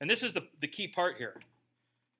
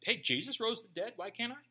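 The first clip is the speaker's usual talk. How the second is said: mock Jesus freak; 4 semitones higher, 4 dB quieter than usual. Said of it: "Just be a real Jesus freak".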